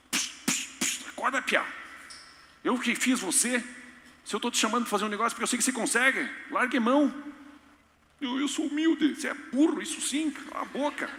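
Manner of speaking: God snapping at a doubter; a hint of exasperated God. God scolding Moses. (Deus impaciente, repreendendo de leve)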